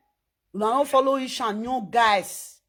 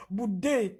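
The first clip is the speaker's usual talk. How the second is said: laughing; 3 semitones lower, 4 dB quieter than usual. Real, not acted. Jokes about Bude.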